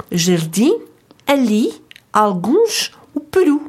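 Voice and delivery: "jardim", "ali", "alguns", "peru" each stressed on the final syllable; stress on last syllable. Shown as a demonstration. Teacher lists example words, stress on the last syllable. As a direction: push the end of each word, as in pe-RU. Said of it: "l'accent tonique s'applique sur la dernière syllabe".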